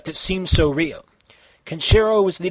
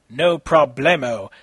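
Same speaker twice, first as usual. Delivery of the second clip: calm; 2 semitones lower than usual. Acted. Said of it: "Kenshiro said calmly".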